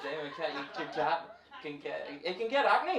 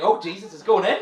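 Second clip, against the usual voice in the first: loud mock alarm, higher; mock panic; 3 semitones higher, 14 dB louder than usual. Retold own panic about choking.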